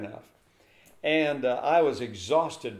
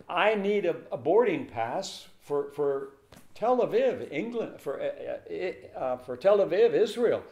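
flustered panic; 5 semitones higher than usual. Retold or imitated. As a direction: trip over the words in a rush. Flustered rush at the counter.

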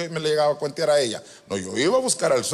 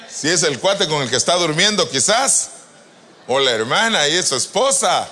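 loud joking preaching; 6 dB louder than usual. Real, not acted. Joking at full preaching volume.

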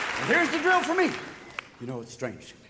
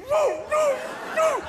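high yipping dog bark; Lassie barking; slower than usual. Retold or imitated. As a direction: bark like an eager collie. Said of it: "Secretary of the Navy".

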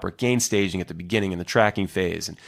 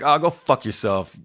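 mildly raised mock-angry dismissal; aggressive retort; 4 semitones higher, 3 dB louder than usual. Online stranger replying to his advice, mock aggressive. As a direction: imitate a hostile brush-off, pitched up. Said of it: "really aggressive and just weird".

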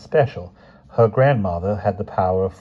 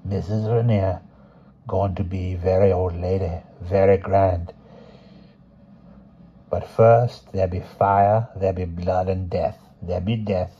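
put-on slow rhythmic old crone; spaced, deliberate old fortune teller; very old woman; slower than usual. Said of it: "spoke slowly, deliberately, spacing her rhythmic words".

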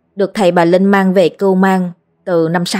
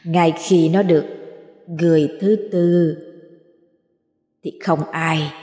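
crazed ghost; 5 dB quieter than usual. A narrator's reading. Wronged ghost answering the exorcist, crazed and quiet. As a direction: murmur like a half-mad spirit. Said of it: "Oan hồn cô Lành cười lên mang dại".

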